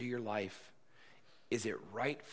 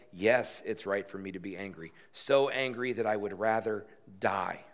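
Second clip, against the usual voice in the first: defiant outburst; 2 semitones lower, 6 dB louder than usual. Acted. Imagined defiant answer to God.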